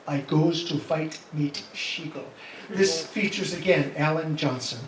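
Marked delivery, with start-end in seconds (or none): 0.1-2.2 lightly put-on German accent; spoofed German accent, understated; mock German accent. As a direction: read the title with a touch of German. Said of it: "their interpretation of".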